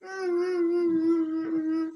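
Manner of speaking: soft hummed mock crying sounds; a little girl fake-whimpering, quietly; pretend whimpering. Girl whimpers because she is hungry, soft pretend crying. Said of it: "இப்ப எதுக்கு மித்து அழுதுட்டு இருக்க?".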